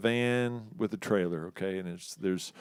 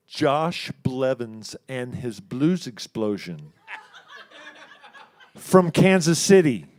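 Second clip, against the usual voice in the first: slow, laughing marquee reading, louder at the end; laughing disbelief; 5 dB louder, slower than usual. Retold or imitated. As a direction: read it out cracking up in disbelief.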